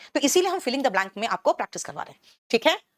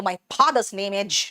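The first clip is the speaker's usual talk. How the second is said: put-on Bihari accent; 2 semitones lower, much slower than usual. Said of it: "इतना ठोक बजा के बोलने की जरूरत क्या".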